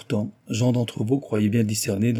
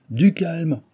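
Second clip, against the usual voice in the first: apaisant; 8 semitones higher, 4 dB louder than usual. A narrator's reading. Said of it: "recommanda Mister Big".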